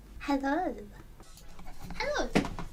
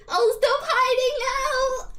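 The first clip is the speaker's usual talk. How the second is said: laughing shyly; 8 semitones higher, 4 dB louder, slower than usual. Real, not acted. Slow and laughing.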